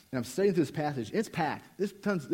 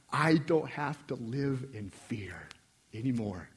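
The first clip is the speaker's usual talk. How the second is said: tearful relief; 4 semitones lower, 4 dB quieter, slower than usual. Retold or imitated. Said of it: "I'm just bawling".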